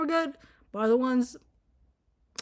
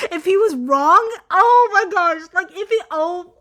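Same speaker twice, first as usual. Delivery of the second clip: laughing; 6 semitones higher, 9 dB louder, slower than usual. Real, not acted. Laughing at dad's audacity.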